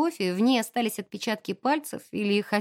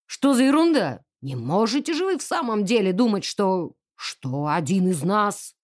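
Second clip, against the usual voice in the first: indignant; 2 semitones lower than usual. Acted. Colonel outraged, loud.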